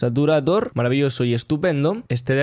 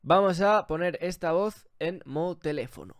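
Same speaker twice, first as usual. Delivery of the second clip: telephone voice; 6 dB quieter than usual. Shown as a demonstration. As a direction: voice filtered thin like an old phone. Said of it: "Lo importante para la voz telefónica". (voz de teléfono antiguo)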